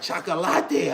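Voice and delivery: hint at a woman cooing; mock admiring Latinas. Streamer retelling what Latinas called him, lightly imitated soft coo. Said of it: "they like".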